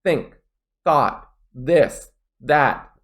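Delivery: "think", "thought", "this", "that" each with careful TH; clear TH. Shown as a demonstration. Teacher drilling problem sounds, clear TH. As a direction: separate words, tongue-tip TH in "think" and "this". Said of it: "Maybe it's T H".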